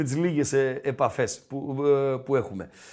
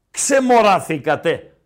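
slow, emphatic call at usual pitch; drawn-out exclamation; 6 dB louder, slower than usual. Real, not acted. Host scolding his voters, drawn-out emphatic exclamation. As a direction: stretch the word out firmly, a bit louder. First take, before shouted imitation.

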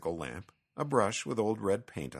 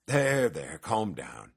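hushing; 2 semitones lower, 4 dB louder, slower than usual. Acted. Petson calming the fuming cat, gently hushing. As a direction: hush an upset friend. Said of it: "Petson hushed".

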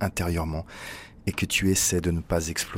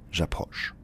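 un souffle à peine audible sur J'approche; chuchoté; 6 dB quieter than usual. Acted. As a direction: dire J'approche tout bas, sans voix. Approche discrète, puis répétée. (J'approche murmuré)

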